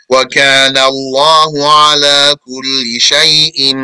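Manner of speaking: quick, measured chanting of the verse; Quran recitation. Acted. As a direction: recite it like tajwid practice.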